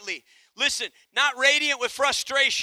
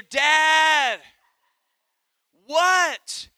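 put-on cheeky child; 4 semitones higher, 4 dB louder than usual. Boy calling father.

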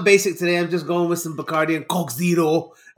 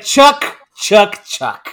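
teasing call; 4 semitones higher, 6 dB louder, much slower than usual. Pretend. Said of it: "I'm gonna be like".

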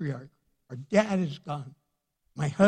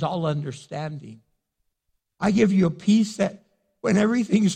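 voicing God's promise; 2 semitones higher, 5 dB louder than usual. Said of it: "He goes".

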